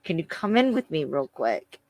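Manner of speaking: tense, teeth clenched request; through gritted teeth. Retold or imitated. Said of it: "grits through his teeth".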